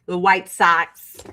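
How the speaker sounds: "Sox" drawn out toward "Sacks"; slow "White Sox", vowel like the a in cat; Midwestern "Sox". Shown as a demonstration. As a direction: say "Sox" with a Chicago fronted vowel. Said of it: "I cannot shake socks".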